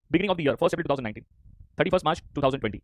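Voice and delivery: very slow, every word spaced out; slow dictation. Shown as a demonstration. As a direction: spell out the dates slowly for the class. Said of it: "सुनना बच्चों". (धीरे-धीरे, हर शब्द अलग करके)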